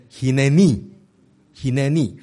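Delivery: "Hineni" with the final "ni" stressed; stress on last syllable. Shown as a demonstration. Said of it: "重音大概都是在最后一个音节".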